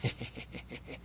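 very soft, voiceless wicked snicker; quiet, sinister wheezing chuckle; imitated wicked laugh. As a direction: snicker wickedly under the breath. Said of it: "gives me this wicked laugh".

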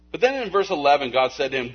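normal talking voice

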